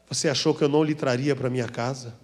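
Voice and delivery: a hint of a low, soft divine voice; voice of God. God's voice speaking to him, lightly voiced low and soft. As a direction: let the voice come gently from above. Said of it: "eu ouvi aquela voz dizendo".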